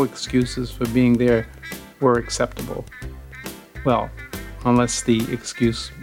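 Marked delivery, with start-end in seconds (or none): none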